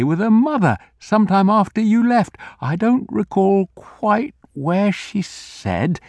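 put-on old man voice. Old grocer recalling.

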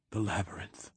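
barely getting the words out; weak voice. Acted. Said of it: "he said again, voice stronger".

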